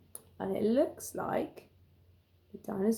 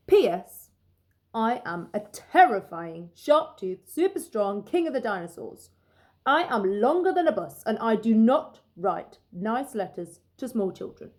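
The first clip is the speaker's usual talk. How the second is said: boastful T-Rex; 5 dB louder than usual. Acted. T-Rex bragging to small Max, loud and proud. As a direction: puff up like a king of beasts.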